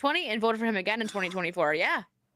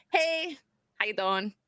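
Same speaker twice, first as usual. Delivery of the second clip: Joey Tribbiani; slower than usual. Retold or imitated. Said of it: "A little Joey Tribbiani action happening".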